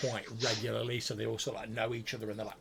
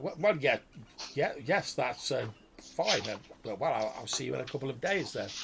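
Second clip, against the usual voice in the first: confused wizard; 3 semitones higher, 3 dB louder than usual. Acted. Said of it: "he sounds a little bit confused".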